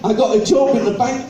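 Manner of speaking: half-hearted go at the lady's voice; first try at the posh lady, not yet in voice; lightly voiced posh lady. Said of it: "she said".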